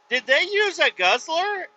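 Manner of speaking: high, slow pointed question; incredulous question, retold. Man questioning the boss about equipment, high incredulity. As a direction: act out asking in disbelief.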